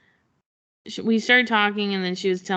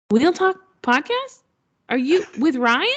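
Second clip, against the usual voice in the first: excited recognition; 7 semitones higher, 4 dB louder than usual. Retold or imitated. Fan at the booth asking about the podcast, surprised. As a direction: gasp out the name of the show.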